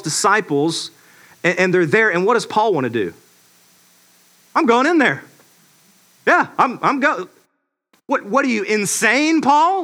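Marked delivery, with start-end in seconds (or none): 4.5-7.3 higher-pitched resolve, lightly acted; mock bold declaration; determined Paul. Paul voiced, resolved to enter. 8.1-9.8 higher-pitched mock disbelief; lightly acted alarmed protest; incredulous friend. Disciples voiced, stopping Paul.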